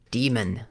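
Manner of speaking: long ee in the first syllable of Daemon; DEE-mun pronunciation. Shown as a demonstration. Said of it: "however you pronounce it".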